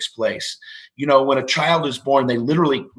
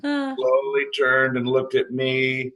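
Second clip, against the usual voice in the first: slowly stretched, for comic suspense; slow-motion storytelling; drawn-out slow telling; slower than usual. Retold or imitated. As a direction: draw the words out as slowly as the turn. Acts out slow head turn.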